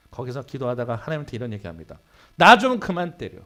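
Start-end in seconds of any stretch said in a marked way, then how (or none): 2.3-3.4 loud, slow, pleading cry to God; desperate plea. Retold or imitated. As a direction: beg him to stop, dragging it out. Desperate pastor's prayer, retold. (하나님께 울부짖듯 크고 느리게)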